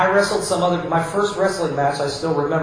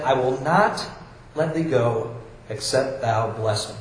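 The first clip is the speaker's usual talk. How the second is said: quiet stubborn plea; 5 semitones lower, 3 dB quieter than usual. Retold or imitated. Jacob quietly telling God he won't let go, low and stubborn. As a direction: lower and softer, stubborn resolve.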